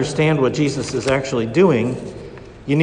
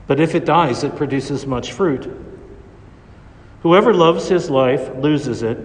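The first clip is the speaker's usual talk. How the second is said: Gospel reading. Acted. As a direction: proclaim it from the ambo. Proclaims the Gospel at Mass.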